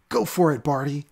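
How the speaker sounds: high urging call to the dog; yelled urging. Acted. Boy urging his dog to jump, high yell. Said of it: "Mao yelled".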